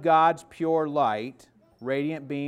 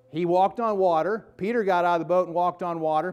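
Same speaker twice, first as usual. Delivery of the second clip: preacher's amazement; 3 semitones higher, 5 dB louder than usual. Real, not acted. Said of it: "preacher builds to amazement".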